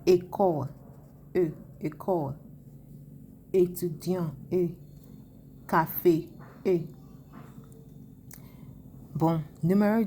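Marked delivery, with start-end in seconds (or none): 0.0-2.3 "École" opening on closed é, that "E" isolated between takes; acute accent demonstrated. Shown as a demonstration. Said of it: "l'accent aigu". 3.5-6.8 "Étudiant" and "Café", each followed by isolated é; acute accent demonstrated. Shown as a demonstration.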